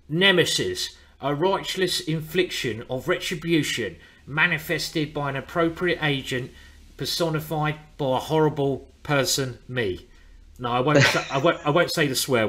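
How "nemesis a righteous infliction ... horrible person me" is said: slow, grand movie-villain recital; dramatic film quote. Shown as a demonstration. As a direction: declaim it like a menacing film line. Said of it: "So I'm gonna say it now".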